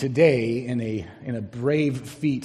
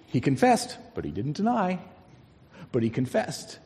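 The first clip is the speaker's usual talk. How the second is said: mock-contrarian reading, deny pitched up; sarcastic reading; 3 semitones higher than usual. Shown as a demonstration. Preacher mimicking his old contrarian take on the verse, sarcastic. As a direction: read it as a contrarian skeptic, twisting the meaning. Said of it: "sarcastic, non-cooperative, contrarian person".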